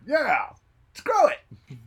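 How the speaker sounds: squealed high, loud cry; hammed-up high yell; mock yell. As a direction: shriek it like a rowdy fan. Echoing the town's cheer.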